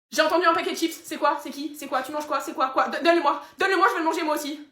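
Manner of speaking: eager demanding. Acted. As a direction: pester excitedly for a share of the food. Le chien réclame des chips. (réclamation excitée et aiguë)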